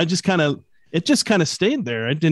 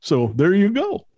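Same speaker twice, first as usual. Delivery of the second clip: grandpa voice; 4 semitones higher, slower than usual. Shown as a demonstration. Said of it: "my grandpa voice".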